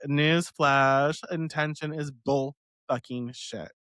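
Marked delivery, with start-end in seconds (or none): 1.3-3.7 defiant, with "fucking" forced into "bullshit"; defiant hot take to viewers; defiant emphasis. Shown as a demonstration. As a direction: state it flatly, daring anyone to object. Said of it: "I said it".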